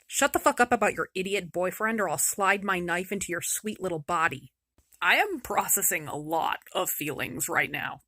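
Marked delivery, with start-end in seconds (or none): 0.1-4.5 a quiet knife-edge warning; menacing robber girl. Acted. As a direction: hiss the threat close to her ear. Robber girl threatens Gerda.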